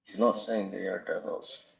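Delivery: faint, cutting-out phone line; radio breaking up. Real, not acted. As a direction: voice fading in and out on a bad connection. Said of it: "your voice is gone".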